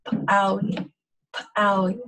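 the P of "p'owie" popped out, then a tiny break; "p'owie" with a popped ejective P. Shown as a demonstration. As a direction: pop the first sound of "p'owie". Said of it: "Pop that out a little bit".

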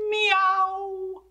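high drawn-out meow; a high, long cat meow. Acted. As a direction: sing it out like a cat. Cats chorus begins.

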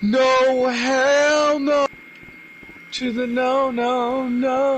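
panicked high yelling no; scared horror game streamer. Real, not acted.

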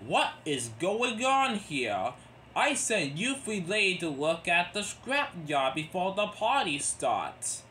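cross. Acted. Topham Hatt questions the engines, mildly cross. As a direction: sound a touch cross, drawing out the question. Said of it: "The Topham hat was crossed".

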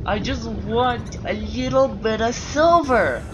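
slow, drawn-out moaning plea; whiny plea. Real, not acted. Player pining for silver, whiny slow plea.

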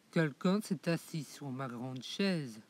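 low big bear voice, a mild exclamation; lightly voiced big papa bear, low. Le grand ours découvre sa chaise, voix grave. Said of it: "s'écrie de sa grosse voix".

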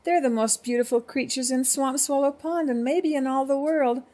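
crying out in protest. A narrator's reading. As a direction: insist on it as the little cricket. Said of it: "cried the littlest cricket".

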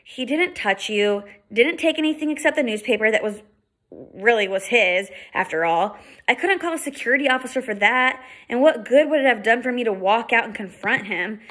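calm, measured explaining; a hint of a patient big brother, calm; reasonable voice. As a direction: talk her down patiently. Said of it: "his reasonable voice".

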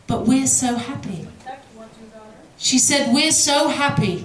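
serene mother. Retold or imitated.

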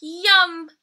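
high, eager cub voice; sweet little bear cub. Acted. Little Brown Bear's voice.

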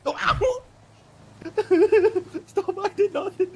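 high, loud pained yelp. Acted. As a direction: cry out as you're hit. Cop gets punched, yelps.

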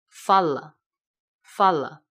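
slow "fala", full first a, reduced last a; closed unstressed a. Shown as a demonstration. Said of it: "要发闭音". (慢速示范：非重读的 a 发闭音)

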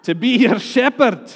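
laughing through a bad Scottish accent; terrible Scottish accent. Preacher finishing his joke line, laughing in a bad Scottish accent. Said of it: "That was a terrible Scottish".

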